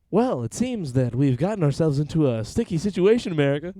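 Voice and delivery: hammed-up announcement of trouble; mock-grand pronouncement. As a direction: address the nation with playful pomp. Mock address reacting to the news.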